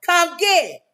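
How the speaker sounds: lightly acted yelling up at neighbors; mock yell. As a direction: call out a fight challenge, half-strength. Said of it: "in the apartment complex yelling up".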